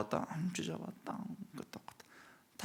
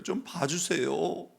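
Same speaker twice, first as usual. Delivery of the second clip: "좀 봐주세요" slow, higher, rising at the end; tearful plea; 9 semitones higher, slower than usual. Retold or imitated. Mother begging God to spare her children, slow tearful plea. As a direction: stretch "좀" into a slow pleading rise. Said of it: "하면 운 거 아닙니까".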